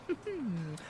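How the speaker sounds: short, soft villain's chuckle. Acted. Aristocrat amused by his own talk, soft chuckle. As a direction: chuckle quietly to yourself.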